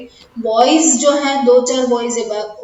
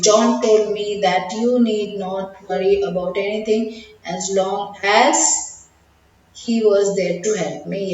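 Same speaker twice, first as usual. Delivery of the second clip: corrected reading, pronoun me. Shown as a demonstration. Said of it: "Yes, that is more appropriate".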